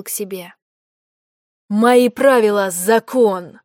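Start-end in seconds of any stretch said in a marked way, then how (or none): 1.7-3.6 slightly louder graveyard-cold pronouncement; sepulchral voice. Acted. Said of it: "загробным голосом".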